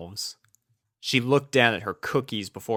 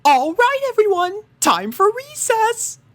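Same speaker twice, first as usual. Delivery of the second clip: teacher calling out; 7 dB louder than usual. A narrator's reading. Cheerilee calling the students to recess, loud high. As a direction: call the class to recess. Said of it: "Cheerilee called".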